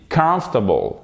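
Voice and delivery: "Comfortable" as KUMF-tuh-bul; correct comfortable. Shown as a demonstration. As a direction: hit the first syllable of "Comfortable", falling after. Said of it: "Allez-y".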